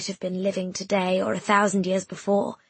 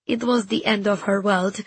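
frail whimper. Acted. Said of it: "trailed out to a frail whimper".

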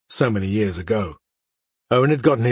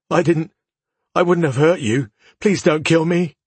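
frightened pleading; 6 semitones higher than usual. Acted. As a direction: plead for his life, rising. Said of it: "the boy whimpered".

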